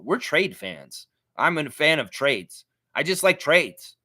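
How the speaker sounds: slow, drawn-out mock fan voice; mocking imitation. Streamer mimicking trade-obsessed fans he calls losers, mocking. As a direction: parrot them slowly, making fun.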